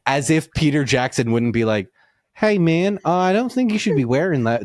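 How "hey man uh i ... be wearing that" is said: higher-pitched, badly faked New Zealand accent; terrible New Zealand accent. Director objecting to sneakers on Gandalf, bad New Zealand accent. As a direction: do Peter Jackson in bad Kiwi. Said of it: "That's a terrible New Zealand accent".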